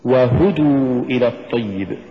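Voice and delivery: وهدوا with و set apart and هدوا pushed; push after waw. Shown as a demonstration. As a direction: lean on the ه in وهدوا. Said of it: "قل". (نطق وهدوا بدفع الهاء بعد الواو)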